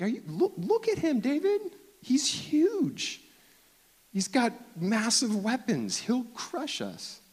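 high squeaky panicked pleading; panicking soldiers. Retold or imitated. Soldiers warning David about Goliath, high and panicky. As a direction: plead in mock terror.

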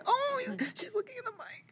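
high soft whisper; whispering so the pony isn't startled. Real, not acted. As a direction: hush so the pony stays calm. Pony by the microphone.

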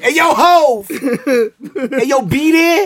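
high, loud holler through laughter; mock calling out. Clowning on his friend by calling Hov, laughing mock holler. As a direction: shout it way up high, cracking up.

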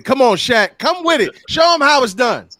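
loud high cheering; hype shout. Real, not acted. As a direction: fire him up, yelling. Hyping a friend on.

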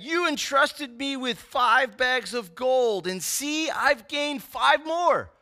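slow, eager servant reporting his gain; excited servant. Acted. Faithful servant excitedly reporting to his master. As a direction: let the pride and thrill spill out slowly. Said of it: "You hear the excitement in his voice?".

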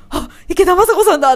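high, loud gasp of fan delight; excited recognition. Retold or imitated. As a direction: blurt it out, thrilled to recognise the voice. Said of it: "ちょっと興奮してしまいました". (興奮して高く大きな声で)

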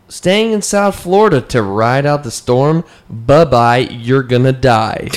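emphatic, drawn-out post reading; dramatic reading. Acted. Reading a Miami storm warning to co-hosts, dramatic reading. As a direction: read it out with dramatic relish.

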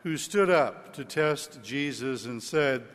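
solemn liturgical Gospel reading. Real, not acted. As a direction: proclaim it like scripture at Mass. Priest proclaims the Gospel.

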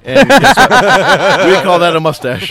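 loud, laughing delivery of the joke's end; laughing punchline. Real, not acted. Teasing Cody about his mustache, loud and laughing. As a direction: shout the punchline through laughter.

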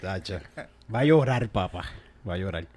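mock crybaby tease. Mocking a friend as crybaby.

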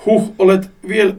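slowly, a touch unhinged; slightly deranged. Acted. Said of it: "hieman mielipuoliselta, kun hän sanoo". (hieman mielipuolinen ääni)

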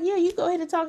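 high, clipped mock permission; sarcastic wife. Monique answering Chris, high sassy mock permission. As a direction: say it with sass.

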